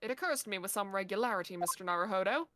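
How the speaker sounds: lightly voiced British detective, brisk; a smug British sleuth lecturing; detective character. Detective lectures the lawyer in a light British accent.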